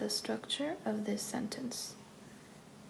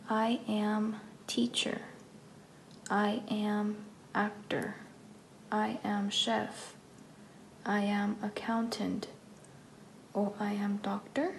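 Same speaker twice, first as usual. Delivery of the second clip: slow, careful "I am chef" with no article; slow wrong examples. Shown as a demonstration. Teacher showing learners the wrong sentences, slowly and carefully. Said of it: "está incorrecto".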